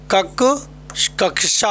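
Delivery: "कक्षा" built up from kak, then kak-sha; correct pronunciation. Shown as a demonstration. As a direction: sound both k and sh in "कक्षा". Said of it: "तो इसका उच्चारण उधर होगा क्या".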